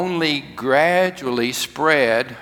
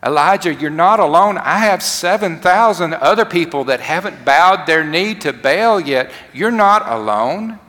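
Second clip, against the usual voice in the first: higher and louder, building with hope; rising, proclaiming God; 5 semitones higher, 5 dB louder than usual. Acted. God promising Elijah he's not alone, rising to a proclamation. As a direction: lift the promise up like a preacher at full cry. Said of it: "It said".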